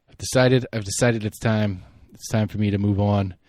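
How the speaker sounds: a hint of Trump, barely put on; half-hearted mock Trump voice; bad Trump impression. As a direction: lightly imitate Trump announcing he quits. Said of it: "That was bad Trump".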